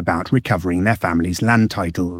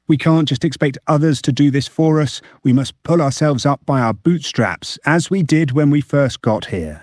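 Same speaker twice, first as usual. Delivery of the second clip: mildly imploring, pitched higher; a touch of pleading, raised pitch; 6 semitones higher than usual. A narrator's reading. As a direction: read the quote as a restrained appeal. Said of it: "he implored".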